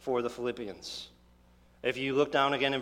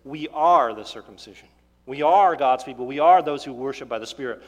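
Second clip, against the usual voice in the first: firm declaration; 2 semitones lower, 6 dB louder than usual. Acted. Preacher declaring identity in Christ.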